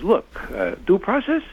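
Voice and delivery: high-pitched, mocking northern New Jersey accent. Speaker mocking John Brennan on due process, northern New Jersey accent. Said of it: "in his northern New Jersey, you know, uh, accent".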